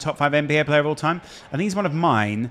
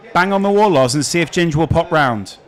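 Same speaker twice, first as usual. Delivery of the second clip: calling out; 4 semitones higher, 6 dB louder than usual. Real, not acted. Calling over to the neighbour.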